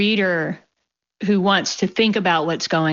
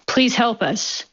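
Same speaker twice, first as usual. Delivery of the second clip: pleading yell; 6 semitones higher, slower than usual. Acted. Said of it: "a woman yelled".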